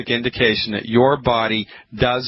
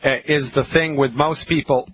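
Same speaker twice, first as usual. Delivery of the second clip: throaty, needing to clear throat; frog in throat. Real, not acted. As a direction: talk through a frog in throat. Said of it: "I got a frog in my throat today".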